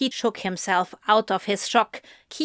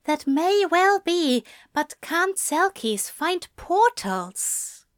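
pointed; 9 semitones higher, slower than usual. A narrator's reading. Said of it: "Zira asked pointedly".

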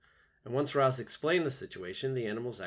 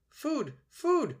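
put-on very high, loud baby-bird cries; peeping gosling; 5 dB louder than usual. A narrator's reading. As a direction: peep it out like a hungry hatchling calling its mother. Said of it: "peeped the gosling".

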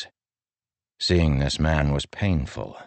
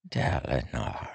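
soft, slow hushed plea; quiet slow whisper of a name; 3 semitones lower, 6 dB quieter than usual. A narrator's reading. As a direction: breathe his name softly. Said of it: "Taravangian whispered".

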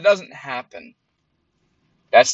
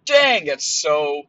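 slow awed reaction; 4 semitones higher, slower than usual. Retold or imitated. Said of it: "I was like".

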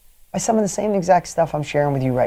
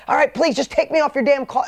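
retold anger; 7 semitones higher than usual. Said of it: "and I got mad".

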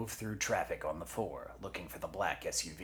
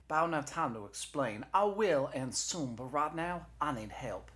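high-pitched urgent pleading; Jesse; 9 semitones higher, 4 dB louder than usual. Acted. Knee begs dispatcher for help, urgent and high.

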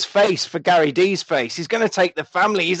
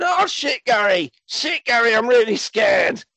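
much higher panicky damsel voice; mock scared wife; 7 semitones higher than usual. Wife tied to a bomb calls to Gary, mock scared. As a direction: squeal it like a damsel in distress. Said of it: "his wife going".

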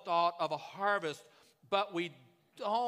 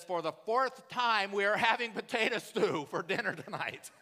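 exasperated reply; 3 semitones higher, 3 dB louder than usual. Retold or imitated. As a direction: spell it out like she's said it three times already. Wife answering the repeated question.

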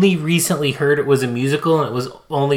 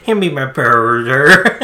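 mock bro voice; 6 dB louder, slower than usual. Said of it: "It sounds exactly like bro".

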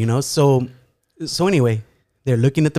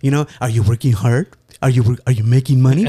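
mom's doting tone; 4 dB louder, faster than usual. Retold or imitated. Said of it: "she's saying it in that tone".

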